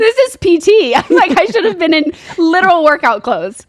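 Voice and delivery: laughing disbelief about wearing workout clothes. Real, not acted. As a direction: laugh out the outrage. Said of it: "laughing retelling".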